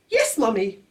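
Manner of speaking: high, lightly voiced baby; baby repeating yes mummy. A narrator's reading. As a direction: chirp it like a tiny baby. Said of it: "then he said".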